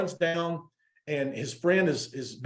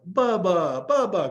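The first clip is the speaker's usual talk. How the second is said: raised, drawn-out hail; guards calling out; 4 semitones higher, 3 dB louder, slower than usual. Retold or imitated. Italian guards greeting Bubba as he walks in, calling out. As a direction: hail a famous friend, pitch climbing. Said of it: "the guards are like".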